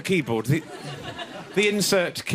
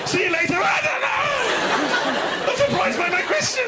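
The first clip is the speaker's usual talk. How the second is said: very high, drawn-out squeak of confusion; voicing the puzzled ?! text; squeaky confused; slower than usual. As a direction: sound baffled by your own question.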